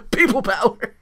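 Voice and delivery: high, loud wrestling boss catchphrase; John Laurinaitis impression. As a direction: bark the catchphrase in a put-on voice. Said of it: "do John Laurinaitis".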